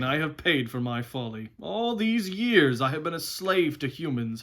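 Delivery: lightly voiced proud, talkative horse; a touch of indignant, lively horse; talking horse. Horse telling Shasta of years of slavery, lightly aggrieved.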